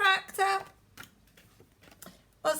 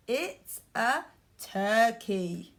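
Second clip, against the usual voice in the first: slow model answer; slower than usual. Shown as a demonstration. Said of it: "What is it?".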